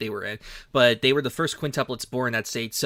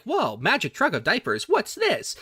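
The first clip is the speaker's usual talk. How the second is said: mock surprise; 8 semitones higher than usual. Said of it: "They're like".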